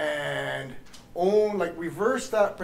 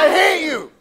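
loud, high, enjoying the hatred; gleeful shout; 12 semitones higher, 10 dB louder than usual. Shown as a demonstration. Teacher repeats the group shout, loud and gleeful. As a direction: yell it and enjoy it. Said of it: "Okay, again".

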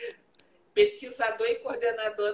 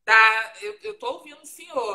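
to someone hard of hearing; 2 semitones higher, 9 dB louder than usual. Real, not acted. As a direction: call it out so he can hear you. He can't hear her audio.

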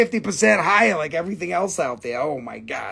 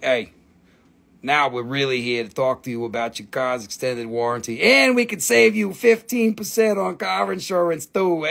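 low salesman spiel voice; lightly voiced pushy salesman; mock telemarketer; 4 semitones lower than usual. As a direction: pitch it like a scam robocall. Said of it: "It's like".

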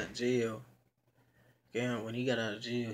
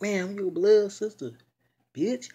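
loud, high, taunting claim; defiant retort; 9 semitones higher, 8 dB louder than usual. Retold or imitated. Stranger insisting she's the blood sister, loud taunting retort. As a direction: throw it back at her, loud and high. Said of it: "She like".

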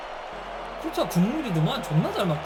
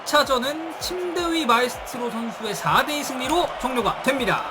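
announcer wrap-up; 3 semitones higher than usual. Acted. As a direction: announce the result like a broadcaster. Closing match announcement. (중계 캐스터 마무리 멘트)

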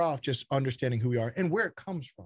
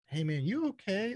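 calm check-in; 8 semitones higher than usual. Retold or imitated. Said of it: "I'm like".

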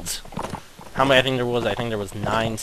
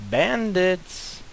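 calling out; 8 semitones higher than usual. Acted. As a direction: shout it across the field. Calling out for bandits.

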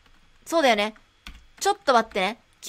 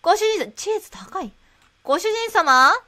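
maid cafe voice; 4 semitones higher, 4 dB louder than usual. Pretend. Maid-themed shop.

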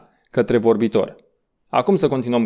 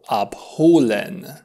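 Sau abholen, slowed and clear; slow repeat; slower than usual. Shown as a demonstration. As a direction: give abholen slowly once more. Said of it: "vom spune".

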